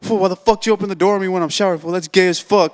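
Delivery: quick, mildly indignant complaint; retold mad friend. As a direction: imitate an irritated friend demanding answers. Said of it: "he comes in hella mad".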